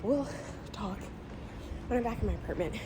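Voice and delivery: winded, halting phrases; out of breath. Real, not acted. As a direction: stop for breath every few words. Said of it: "I'm so out of breath".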